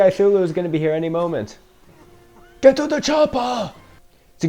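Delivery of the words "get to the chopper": movie quote. Retold or imitated. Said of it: "quoting famous movie line".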